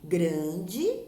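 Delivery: "grande" loud and split as gran-de; "grande" in two measured beats, gran, de; syllable by syllable. Shown as a demonstration. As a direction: sound out both syllables of "grande" firmly. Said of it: "observe a separação de sílabas destas palavras".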